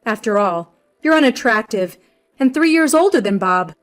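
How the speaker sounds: loud, accusing mother-in-law; punched, scornful accusation; angry. Acted. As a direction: lay out the accusation with mild anger. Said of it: "continued with an angry expression".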